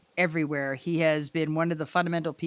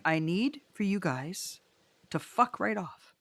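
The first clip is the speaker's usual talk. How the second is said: mock dismissal; 5 dB quieter, slower than usual. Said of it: "And I'm like".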